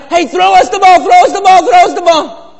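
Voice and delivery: high, loud retold call to the players; high yelling fan begging for the ball; crying out for the ball. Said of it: "we're crying out".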